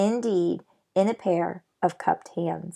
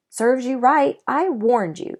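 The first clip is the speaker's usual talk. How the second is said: smug scolding; 5 semitones higher, 4 dB louder than usual. Acted. Omri scolds Patrick.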